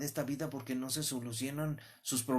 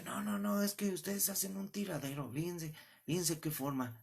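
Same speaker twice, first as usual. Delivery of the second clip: scolding neighbour woman; 4 semitones higher than usual. Retold or imitated.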